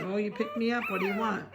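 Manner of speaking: high squeaky puppy voice, climbing on the question. Pretend. Breeder voicing the picked-up puppy in a high squeak. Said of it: "He says".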